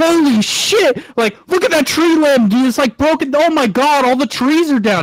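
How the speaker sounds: very high, loud, frantic panicked freak-out. Retelling a passenger's panic about fallen trees: imitating someone freaking out. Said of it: "She's, like, freaking out".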